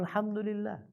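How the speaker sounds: high and very soft, barely voiced out; a high, faint, exhausted praise; breathless thanks. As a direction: sigh it out as the last of his strength. Survivor's final thanks after hell.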